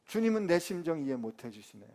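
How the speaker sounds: grumbling 주님은 내 심정 이해 못 해주시네 with a fall on 주님은; half-voiced complaint, 주님은 stressed, falling at the end; sulky grumble. Pastor playing Paul, grumbling at the Lord. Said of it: "제가 바울이라면 저 열 더 받았을 것 같아요".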